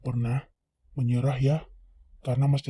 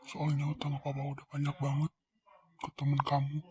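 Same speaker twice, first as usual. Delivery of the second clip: whisper; 6 dB quieter than usual. Acted. Father whispering to daughter.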